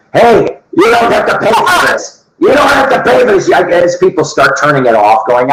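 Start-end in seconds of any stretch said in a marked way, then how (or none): 0.1-3.5 high, laughing mock plea, faster at the end; laughing protest. Real, not acted. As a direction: laugh while pleading. Joking protest while laughing.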